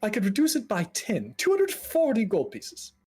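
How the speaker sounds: high, timid haggler; hesitant, climbing in pitch; anxious mage. Acted. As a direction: nervously offer a small discount. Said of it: "he's just very elevated, very anxious".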